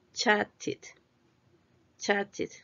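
Chatted in two separate beats, ending -tid; two syllables. Shown as a demonstration. Teacher shows T endings add a syllable, two beats. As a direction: sound out both syllables of Chatted. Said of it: "son dos sílabas".

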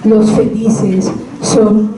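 measured reading with long pauses between verses; poetry recitation. Acted. Reading Juego de Sombras to listeners, measured recitation. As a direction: recite each line as its own statement.

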